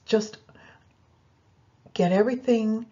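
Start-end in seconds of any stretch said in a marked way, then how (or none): none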